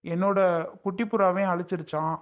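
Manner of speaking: a spurned husband mourning the wife he lost; bitter lament. Acted. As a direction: sigh it out as if love were lost for good. Rejected husband laments losing wife.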